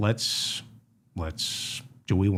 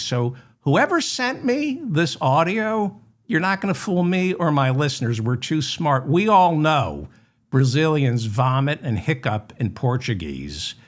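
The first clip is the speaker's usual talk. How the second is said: mock rant; 4 semitones higher than usual. Host scolding whoever sent the fake audio, mock furious rant. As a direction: puff up and scold the forger with fake outrage. Ranting at the forger.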